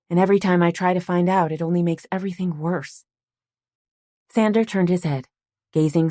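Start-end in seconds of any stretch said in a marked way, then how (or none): 0.1-3.1 frustrated. Acted. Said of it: "couldn't disguise the frustration".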